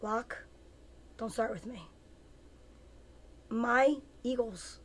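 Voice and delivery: half-hushed playful warning, slowing on My Eagles; gentle in her ear. Retold or imitated. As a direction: murmur it lightly like a private teasing threat. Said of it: "in her ear, gently".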